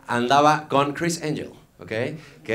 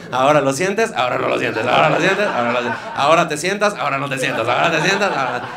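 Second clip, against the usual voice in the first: mock magician patter; 6 dB louder than usual.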